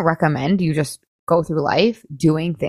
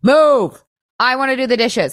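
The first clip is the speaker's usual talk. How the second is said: mock yell; 5 semitones higher than usual. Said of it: "yelling at my friends last night".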